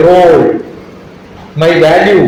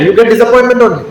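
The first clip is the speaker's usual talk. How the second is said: laughing punchline; 2 semitones higher, faster than usual. Real, not acted.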